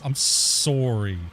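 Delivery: drawn-out, sarcastic I'm sorry; deadpan slow apology. Retold or imitated. Staring the officer dead in the eyes, slow and sarcastic. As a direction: stare her down and drag out the sorry. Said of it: "looked at her dead in the eyeballs".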